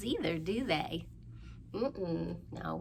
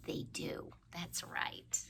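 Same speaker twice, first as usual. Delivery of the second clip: soft unvoiced whisper; quiet secret whisper; 7 dB quieter than usual. Hushed answer to child.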